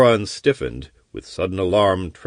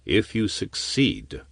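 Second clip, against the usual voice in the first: stubborn; 5 dB quieter than usual. Acted. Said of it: "argued Coran stubbornly".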